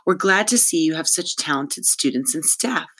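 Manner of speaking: lightly voiced tinkle; a touch of tinkly politeness; tinkling voice. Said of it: "in her terrible tinkle".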